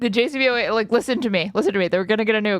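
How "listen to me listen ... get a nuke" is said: mock frantic, pleading rant. Retelling his frantic pitch to the interviewer: imitating a frantic rant. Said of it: "it's so frantic".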